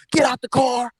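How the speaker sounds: high-pitched mock megaphone command; officer on loudspeaker. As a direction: imitate a trooper ordering someone over the microphone. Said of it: "got out the car with a microphone".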